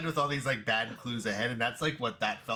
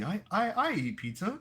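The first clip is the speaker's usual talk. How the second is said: squeaky mock fan; 11 semitones higher, 3 dB louder than usual. Imitating relatable fan.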